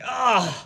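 high, drawn-out cringing "ah"; cringing cry. Retold or imitated. Reacting to the D word, cringing cry. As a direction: recoil aloud at an awful word. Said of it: "'Cause I cringed when she said it".

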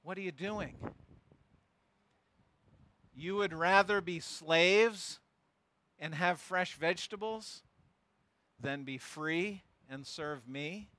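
hushed, slow fatherly reproach; gentle rebuke. Retold or imitated. God rebuking softly.

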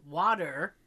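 water with the Boston r dropped, wah-tah; Boston accent. Real, not acted. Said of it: "I heard my Boston accent".

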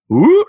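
loud swooping "woo"; a quick loud woo that swoops up and down. Retold or imitated. Comic tells friend how the vet's accent goes, swooping woo. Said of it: "like, up and down".

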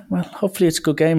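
high-pitched mimicked woman brushing it off; imitated female coach, high and quick. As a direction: put on a high voice and hurry through the pleasantry. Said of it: "who was a woman".

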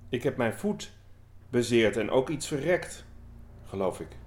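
measured, deliberate poetry reading; poem reading. Acted. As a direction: read the poem aloud with weight and pauses. Reads a poem aloud.

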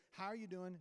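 gently asked greeting, slightly subdued; retold gentle check-in. Friend greeting a waitress, gently. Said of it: "he says very gently".

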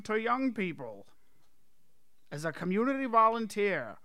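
light news bulletin voice; old radio announcer. Acted. Mock news bulletin intro.

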